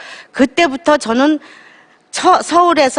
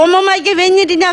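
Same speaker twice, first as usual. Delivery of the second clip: higher, shocked cry of a mother; startled mother; 5 semitones higher than usual. Retold or imitated. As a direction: imitate her gasp of alarm. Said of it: "깜짝 놀래갖고". (깜짝 놀란 어머니 흉내, 높은 목소리로)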